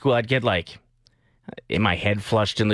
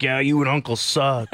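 joking insult; 4 semitones higher than usual. Retold or imitated. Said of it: "I thought they meant, like, call your aunt and make fun of her".

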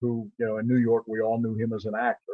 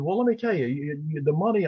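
agent; 4 semitones higher than usual. Retold or imitated. Agent voiced warning about pay.

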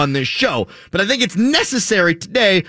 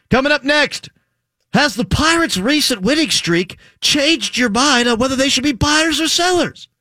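mock announcer voice; 9 semitones higher than usual. Mock announcer tease, higher.

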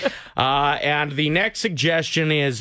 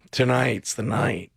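husky bedroom voice. Shown as a demonstration. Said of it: "with that voice".

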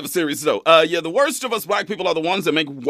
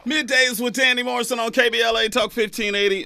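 radio shout-out; 7 semitones higher than usual. Acted. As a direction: call out the show name. Station ID, shouted.

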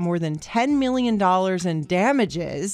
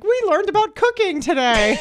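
put-on excited kid voice; 10 semitones higher than usual. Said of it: "the other one's like".

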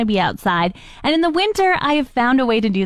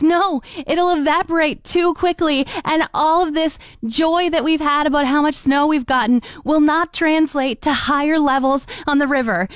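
higher mock-whiny friend; 6 semitones higher than usual. Friend voiced, complaining.

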